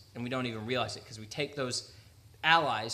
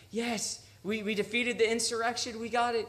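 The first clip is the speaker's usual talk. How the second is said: higher, celebratory mock soldier; mock cheering; 7 semitones higher than usual. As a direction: play the jubilant troops, lightly. Voicing excited victorious soldiers.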